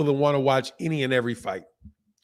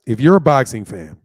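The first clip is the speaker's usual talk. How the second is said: louder, pressing the point; emphatic; 2 semitones lower, 10 dB louder than usual. Real, not acted. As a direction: hammer the point home. Building up to his point.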